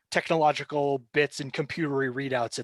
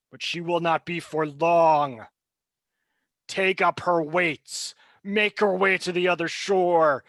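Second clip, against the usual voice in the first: commanding villain. Acted. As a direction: set the cruel task. GM voices the villain figure.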